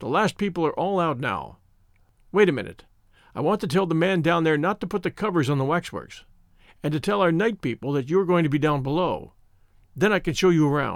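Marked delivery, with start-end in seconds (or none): none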